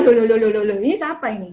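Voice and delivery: hammed-up newlywed bewilderment; mock shock. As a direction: act stunned at a stranger beside you. Newlywed shocked at changed spouse.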